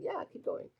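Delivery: a whispered voice egging her on; whispered entity. Pretend. An imagined entity eggs her on, in a whisper. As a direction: breathe it like an unseen presence urging her on. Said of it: "maybe it's an entity saying".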